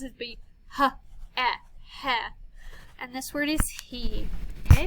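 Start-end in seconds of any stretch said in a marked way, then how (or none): 0.8-2.2 h, e, he as separate letter sounds, then blended; short-vowel phonics sounding of "h, e, he"; sounded out. Shown as a demonstration. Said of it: "if I made the sounds".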